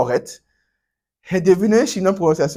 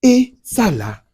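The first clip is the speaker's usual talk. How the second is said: slow pointing; 8 semitones higher, 7 dB louder, much slower than usual. Shown as a demonstration. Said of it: "c'est différent".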